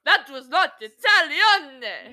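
loud, slow, laughing through the words. Real, not acted. Mocking the fake Italian, laughing hard. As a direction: crack up mid-sentence. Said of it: "in Italione".

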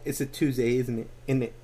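put-on tentative, half-hearted British accent; mild British lilt on a tag question. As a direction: feel your way into a British accent. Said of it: "give me your best British accent".

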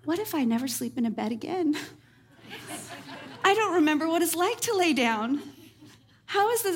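giggling at her own tired panic; laughing through it. Real, not acted. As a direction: laugh while retelling the crazy thought. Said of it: "this one that made me laugh after the fact".

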